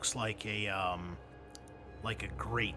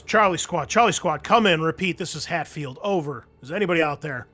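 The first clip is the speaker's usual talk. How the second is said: urgent military radio call, loud and raised; Major Hatfield; 6 semitones higher, 12 dB louder than usual. Acted. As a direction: hail the squad over comms like a commanding officer. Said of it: "it is Major Hatfield ... he says".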